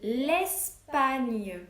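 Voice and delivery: L'Espagne dictated slowly, stressing the final gne; dictation word. Shown as a demonstration. Teacher dictating the second word to her pupils. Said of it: "deuxième mot".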